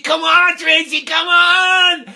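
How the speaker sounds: loud high urging call; coach's urging. Retold or imitated. Coach kneeling at home plate urging Tracy on, shouting. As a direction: beg her home with your voice.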